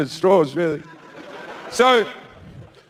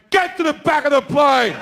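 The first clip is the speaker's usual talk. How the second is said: triumphant shout; 6 semitones higher than usual. Retold or imitated. Comedian shouting at the seatmate to go to the back. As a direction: bark it out, pointing. Pointing, ordering man back.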